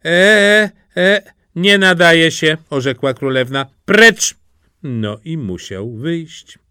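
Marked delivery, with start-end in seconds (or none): 0.1-1.2 high, helpless hesitation; tongue-tied stammer. A narrator's reading. Suitor wants to say something witty, tongue-tied. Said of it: "Nie wiedział, co powiedzieć". 1.6-2.6 raised, higher royal verdict; curt dismissal. A narrator's reading. Princess rejects the speechless suitor, curt dismissal. 3.9-4.4 loud, high order to leave; sharp command. A narrator's reading. Princess sends the suitor away, sharp command.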